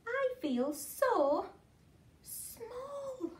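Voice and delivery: rising to a tiny, high squeak on the last word; small snail voice. Acted. Snail telling the whale she feels small, tiny and hushed. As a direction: let the voice shrink away at the end. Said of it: "and she said to the whale".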